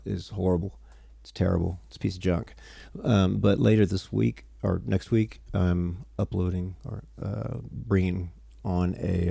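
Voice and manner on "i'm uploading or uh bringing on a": tired, slow mumbling. Real, not acted. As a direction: mumble the words half-asleep. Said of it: "Sorry, I'm mumbling".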